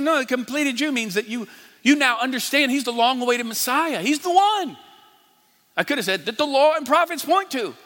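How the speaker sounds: high-pitched, building excitement; retold eager explaining. Preacher re-enacting telling her of the Messiah, excitedly. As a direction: explain it with rising fervour.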